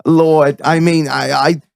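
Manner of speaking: a hint of a rabbi praising his beer; hammed-up rabbi. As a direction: play a chatty old rabbi, slowly. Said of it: "Rabbi Reg here".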